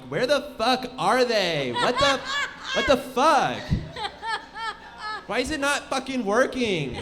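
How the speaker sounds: hammed-up panic, drawing out the swearing; mock frantic soldier. Imagined soldiers panicking behind enemy lines.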